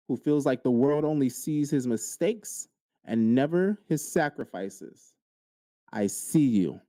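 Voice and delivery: deliberate, earnest affirmation with long pauses; spoken affirmation. Real, not acted. Host affirming drained men listening, measured and earnest. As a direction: let each phrase land on its own.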